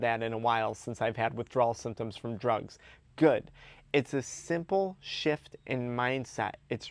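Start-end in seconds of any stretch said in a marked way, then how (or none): 3.2-3.5 "Good" punched loud with a falling tune; emphatic "Good". Acted. To himself about lost sleep, emphatic "Good". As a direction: hit "Good" hard as a standalone word. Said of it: "emphasis on the word good".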